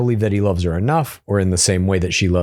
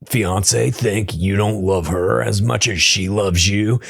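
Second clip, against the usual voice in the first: lightly voiced TV commercial announcer; a hint of a pitchman selling tacos; mock ad voice. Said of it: "Try the new chalupa at Taco Bell".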